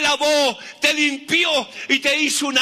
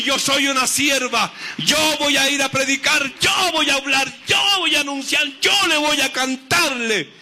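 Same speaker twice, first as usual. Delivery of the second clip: shouted declaration. Shown as a demonstration. Congregation told to declare this.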